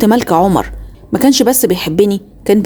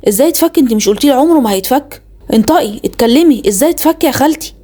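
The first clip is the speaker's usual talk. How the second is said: frantic demand; 5 semitones higher than usual. Retold or imitated. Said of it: "اتجننت".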